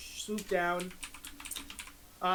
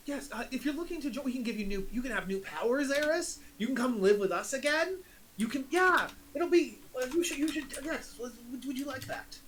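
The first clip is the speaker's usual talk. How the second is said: a slightly higher, pleading father voice; coaxing father; 4 semitones higher than usual. Acted. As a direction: gently coax the lost daughter home. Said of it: "was your dad".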